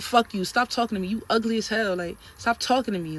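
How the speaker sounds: loud angry insults. Retold or imitated. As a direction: curse him out. Cursing at trainer.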